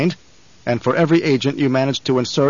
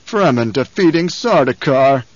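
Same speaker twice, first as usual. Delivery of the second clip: sneering; 4 dB louder than usual. Acted. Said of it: "the Baron sneered".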